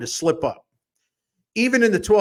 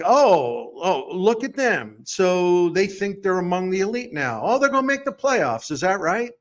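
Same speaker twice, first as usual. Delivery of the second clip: sarcastic; 2 semitones higher than usual. Acted. Rival fans scoffing at the Tigers' playoff hopes, sarcastic. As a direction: voice the doubters with exaggerated disbelief. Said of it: "I'm being sarcastic".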